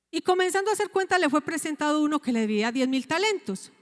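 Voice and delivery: "Y comenzando a hacer cuenta" leído muy rápido; relectura rápida. Shown as a demonstration. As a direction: vuelve a leer el versículo de corrido, deprisa. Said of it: "Entonces dice acá, dice". (relee la cita rápido y sin pausas)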